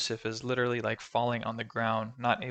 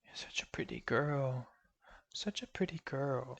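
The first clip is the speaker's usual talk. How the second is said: soft breathy whisper to herself; 2 semitones higher, 5 dB quieter than usual. Retold or imitated. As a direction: whisper it eerily to a mirror. Hava whispering to her screen self.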